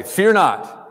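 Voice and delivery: a hint of an angel calming a frightened man; angel's command. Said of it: "They always say".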